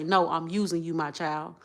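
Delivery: lightly voiced God, tender. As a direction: say it softly, as God would to his child. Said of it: "God say".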